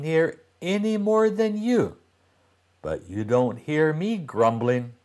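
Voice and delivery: a hint of an annoyed girl chiding her brother; sister, fed up, tells him off; lightly voiced sister, scolding.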